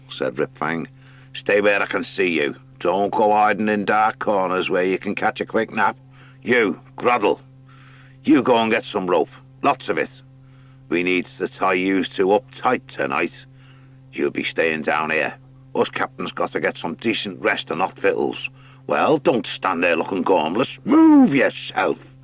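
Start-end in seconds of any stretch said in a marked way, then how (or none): 1.3-20.8 hint of a bullying rat captain giving orders; lightly voiced cruel sea rat. Rat captain orders captives around, mock-cruel voice. 20.8-22.1 high, slow, loud barked command; shouted order. Acted. Rat captain yells at Groddle to move, loud slow order.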